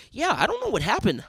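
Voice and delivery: mock accent-free American English; accent suddenly gone. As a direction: imitate a man who has dropped his Asian accent. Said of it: "that accent is gone. Now he's like".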